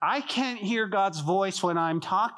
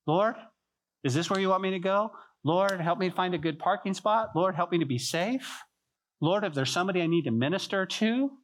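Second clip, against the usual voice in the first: praying; 3 semitones higher than usual. Pretend. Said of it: "inquire of the Lord when you go to Walmart".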